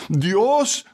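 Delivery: a touch of defiant anger; mild lioness fury. A narrator's reading. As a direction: throw the word back as a challenge. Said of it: "se volvió como una leona".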